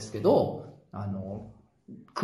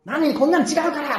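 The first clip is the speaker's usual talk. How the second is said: frantic wife denial; 11 semitones higher, 6 dB louder than usual. Retold or imitated. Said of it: "嫁さんがひったくって".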